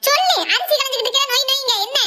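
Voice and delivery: high, impatient retort; irritated. Acted. Mother interrupted while mixing rice, irritated. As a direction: snap back at a pestering interruption.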